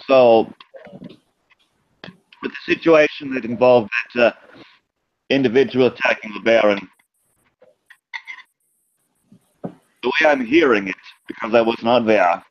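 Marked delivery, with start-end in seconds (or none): 2.4-12.4 lightly voiced German accent. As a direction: speak with a hint of a German accent. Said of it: "Sorry, it's a German accent".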